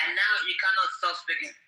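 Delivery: yelling over an interrupter, voice cracking; furious cry at someone who won't stop talking; angry shout. Real, not acted. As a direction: shout him down, near tears. Heated on-air argument, interrupted.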